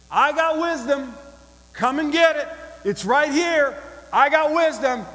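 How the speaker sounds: high, loud street-crier call; calling out like a hawker; crying out. Acted. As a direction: shout it out to the whole village. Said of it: "And she's crying out".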